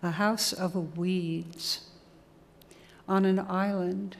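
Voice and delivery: measured recital with pauses between phrases; evenly paced reading, each line set apart; poem reading. Acted. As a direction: read it as a list poem, phrase by phrase. Reads a poem aloud.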